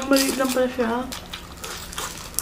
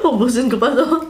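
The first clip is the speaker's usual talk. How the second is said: laughing; 4 semitones higher than usual. Real, not acted. Laughing while still eating.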